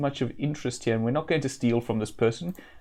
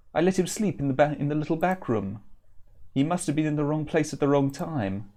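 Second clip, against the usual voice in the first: frightened; 3 semitones higher than usual. Acted. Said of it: "His eyes are wild with fright".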